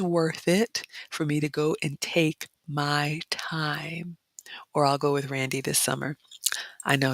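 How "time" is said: softer whispered ending. Real, not acted. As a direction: whisper the last word. Whispered end of phrase.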